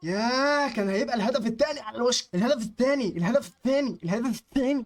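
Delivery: high, excited lament on repeat; agonised near-miss cry. Real, not acted. Gamer just missing his second goal, agonised near-miss cry. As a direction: wail over the chance that got away.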